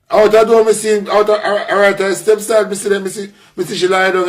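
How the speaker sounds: telling it all worked up; excited. Real, not acted. Excited retelling, raised voice.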